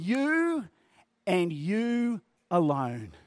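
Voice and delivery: single out "You" as God and nobody else; stress on you. Shown as a demonstration. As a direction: lift "You" and slow down on "you alone". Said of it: "The emphasis is basically saying".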